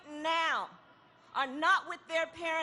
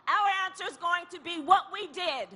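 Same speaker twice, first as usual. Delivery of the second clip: rising rally cry; 4 semitones higher than usual. Real, not acted. Rally speech builds to climax.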